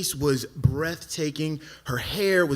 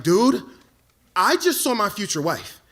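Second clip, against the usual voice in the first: excited; 5 semitones higher, 4 dB louder than usual. Retold or imitated. Excitedly telling friend about woman.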